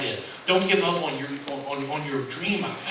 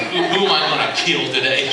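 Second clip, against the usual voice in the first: mock Jillian entrance; 5 dB louder than usual. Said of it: "she walks in like this".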